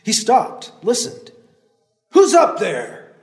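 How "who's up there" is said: slow, loud call up the trail; old man calling up the trail, slow and loud. Acted. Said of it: "An older man's voice called".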